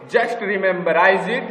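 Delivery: slow emphasis. Shown as a demonstration.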